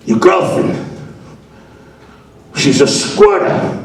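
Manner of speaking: slow, halting Italian landlord voice; old-school Italian accent. Retold or imitated. Landlord phones a tenant about his girlfriend, old-school Italian accent. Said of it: "It's old school Italian".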